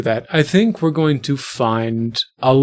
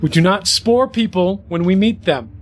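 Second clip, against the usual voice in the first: higher-pitched parental telling-off; reprimand; 4 semitones higher than usual. Acted. Eve reprimands Simon for sporing a child, scolding. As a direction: lay down the rule to a misbehaving companion.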